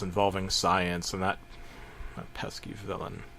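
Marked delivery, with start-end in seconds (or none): 2.2-3.2 whispered, breathy menace; hushed whisper. Acted. Fan whispering about the pesky villain, hushed. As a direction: hush it like a secret.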